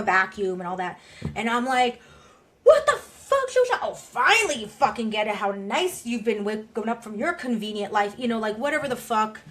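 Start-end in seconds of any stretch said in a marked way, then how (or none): 2.6-8.1 rageful outburst. Acted. Speaker voicing a rageful person of color, furious shout. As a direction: let the rage explode at her. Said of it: "I can pull that voice in".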